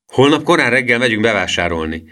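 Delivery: pleased exclamation. A narrator's reading. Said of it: "kiáltotta Emil elégedetten". (elégedett felkiáltás)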